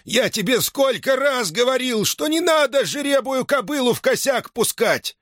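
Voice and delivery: high, strained scolding, leaning on сколько; angry old man's scolding. Acted. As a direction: drive home how many times he warned. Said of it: "закричал".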